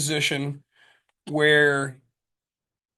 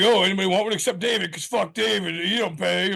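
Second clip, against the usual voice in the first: quick, higher-pitched mock jab at a friend; serious but joking; 4 semitones higher than usual. Ribbing a friend who never pays, serious but joking. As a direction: rib a friend in a hurry, half in earnest. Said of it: "I'd do it serious but joking".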